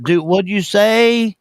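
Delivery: slow, dumb-sounding country caller; stalling country voice on a prank call; slow country drawl. Retold or imitated. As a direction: play a slow country boy stalling on the phone. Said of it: "I'm country. I talk really slow".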